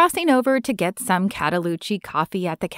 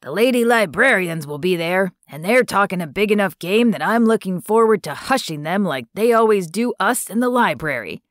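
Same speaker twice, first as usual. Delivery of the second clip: cranky; faster than usual. Acted. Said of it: "gets a cranky look on his face".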